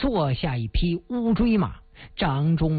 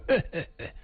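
short scornful laugh, softer; haughty laugh; 2 semitones lower, 5 dB quieter than usual. Acted. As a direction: laugh off the enemy's story. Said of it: "哈哈大笑".

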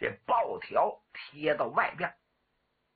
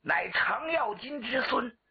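formal self-introduction; 7 semitones higher than usual. Acted. General announces his lineage and name, grand and high.

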